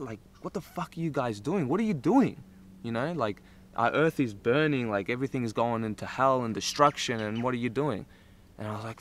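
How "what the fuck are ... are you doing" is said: angry spirits. Retold or imitated. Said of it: "they were, like, angry and, and upset".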